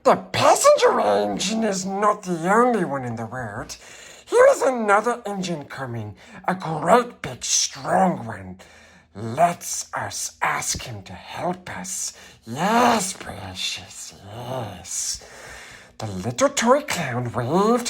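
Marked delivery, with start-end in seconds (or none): 0.0-8.6 higher eager clown voice; clown calling out. Acted. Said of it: "the little clown called out". 9.1-15.2 whispered scheming creature voice; Gollum whisper. Acted.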